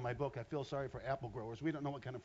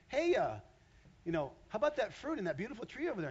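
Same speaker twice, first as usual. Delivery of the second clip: Satan tempting; 7 semitones higher, 5 dB louder than usual. Acted. Satan tempting Eve in sermon.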